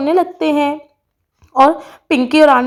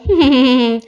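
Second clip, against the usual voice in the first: closed-mouth character laugh; hummed, self-satisfied laugh; snake charmer's chuckle. Acted.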